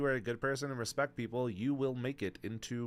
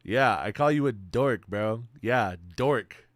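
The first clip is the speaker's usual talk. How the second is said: loud tease; 6 dB louder, slower than usual. Real, not acted. Teasing a chatter loudly.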